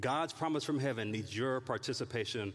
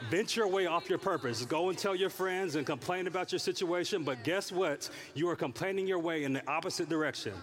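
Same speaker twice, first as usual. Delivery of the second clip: higher and louder sermon push; repeated louder; 5 semitones higher than usual. Real, not acted. Preacher repeating his point louder for the other side of the room. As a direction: drive the point home harder. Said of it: "I'm just gonna go over here".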